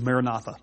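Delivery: "Maranatha" as mair-a-NAH-tha, in one run; Jesus-movement pronunciation. Shown as a demonstration. Preacher recalling the Jesus movement's way, "Maranatha" said mair-a-NAH-tha. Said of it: "back in the Jesus movement".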